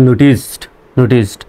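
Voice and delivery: নোটিসড said carefully with final "-st"; correct pronunciation. Shown as a demonstration. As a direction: model নোটিসড twice, pausing between. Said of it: "এখন উচ্চারণটা হবে".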